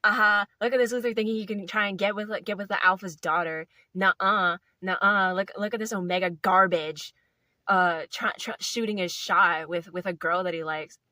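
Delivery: loud, jeering taunts at the outcast; mocking wolf pack. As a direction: jeer at him like a bully in the pack. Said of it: "and they're like".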